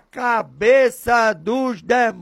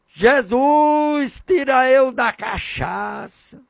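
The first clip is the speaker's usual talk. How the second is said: imploring cry to Jesus; voiced prayer of a desperate addict; pleading sinner; 3 semitones higher than usual. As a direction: beg Jesus for release from the crack pipe and the bottle. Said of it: "dizendo pra Jesus".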